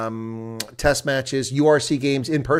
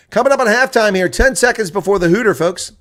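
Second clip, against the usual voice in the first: raised, louder countdown call; excited play-by-play; 9 semitones higher, 8 dB louder than usual. Real, not acted. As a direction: lift it for the halftime hooter. Calling the end of half.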